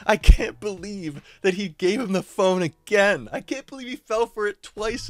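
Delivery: can barely get the words out for laughing; laughing hard. Real, not acted. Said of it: "in the back dying".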